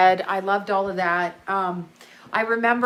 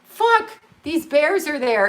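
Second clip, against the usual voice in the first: mock panic; 7 semitones higher, 4 dB louder than usual. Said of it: "I was like".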